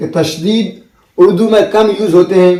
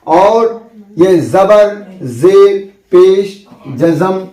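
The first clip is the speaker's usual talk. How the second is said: slow listing of marks; slower than usual. Shown as a demonstration. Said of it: "इसको आप एक बार screenshot कर लें".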